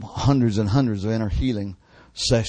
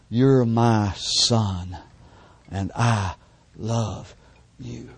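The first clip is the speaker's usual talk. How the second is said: tender voice of Jesus; much slower than usual. Retold or imitated. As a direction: speak it slowly like a loving father to his son. Jesus speaking tenderly in vision.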